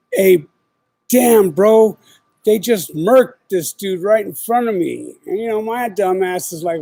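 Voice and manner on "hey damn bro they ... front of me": imitating a shaken friend, higher and louder at the start; agitated retold report. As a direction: act out a friend's urgent news, pitched up. Retelling friend's shocked report of killing.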